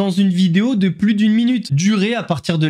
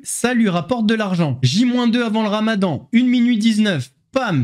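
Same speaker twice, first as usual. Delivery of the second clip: infomercial; 4 semitones higher than usual. Acted. Mock ad countdown of video durations.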